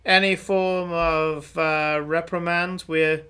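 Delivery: a self-important soldier greeting travellers; puffed-up guard welcoming travellers; officious guard. Acted. GM voices guard NPC.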